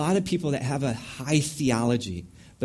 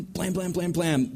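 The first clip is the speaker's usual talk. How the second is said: mock gunfire; 4 semitones higher than usual. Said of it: "lead immediately with correction".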